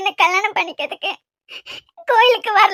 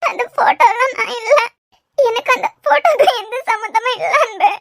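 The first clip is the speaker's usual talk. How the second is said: protesting through tears; tearful denial to her groom; crying. Acted. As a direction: insist through sobs you had no part. Bride accused over photos, sobbing.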